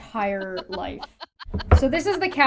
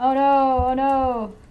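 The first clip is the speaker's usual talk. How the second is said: fake panic, very slow and dragged out; 2 semitones higher than usual. Realizing one of the jokes is lost while searching: mock panic. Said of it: "I'm panicking".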